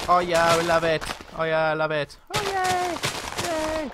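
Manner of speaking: high, hammed-up cheer; put-on high-pitched celebration; mock cheering crowd. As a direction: act out an excited crowd going wild. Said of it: "everybody's like".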